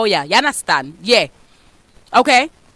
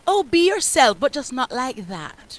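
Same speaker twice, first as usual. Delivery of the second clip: mocking hypocrites. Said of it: "they say".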